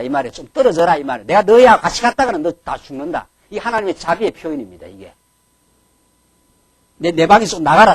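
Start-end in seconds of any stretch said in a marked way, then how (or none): 0.3-1.0 loud, curt order to back off; mock-angry father ordering distance; angry command. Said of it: "집에서 화가 한번 나면은". 1.3-3.3 loud, heated warning; God voiced as a furious father; angry warning. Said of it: "집에서 화가 한번 나면은". 7.0-7.9 loud shout to leave the room; a father's loud mock yell; angry shout. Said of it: "집에서 화가 한번 나면은".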